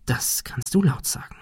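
soft, secretive whisper; whispered reply. A narrator's reading. Ben silently answers Thomas's look, whispered. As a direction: whisper it back for one person only.

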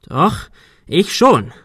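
panicky. A narrator's reading. Arthur breaks away from the group, panicky and defiant. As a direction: insist with a touch of panic. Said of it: "Arthur klang selbst panisch".

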